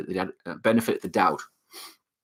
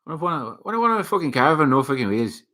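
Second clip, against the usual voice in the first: higher-pitched film quote impression; Snatch movie quote; 5 semitones higher, faster than usual. Fan acting out a favorite movie line, playful film impression. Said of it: "Snatch is my favorite movie".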